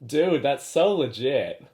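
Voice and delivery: slow, stretched-out American dude accent; imitated American accent. Shown as a demonstration. Australian co-host copying the American guest, slow American accent. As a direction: try on an American accent, drawing it out. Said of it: "why don't we try to imitate her accent?".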